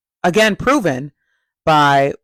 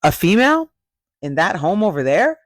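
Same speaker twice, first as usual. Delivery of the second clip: high mock-innocent voice, louder; mock clueless Adam; 4 semitones higher, 3 dB louder than usual. Adam dodging the host's question, mock clueless voice. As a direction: play dumb about the question. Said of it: "Adam goes".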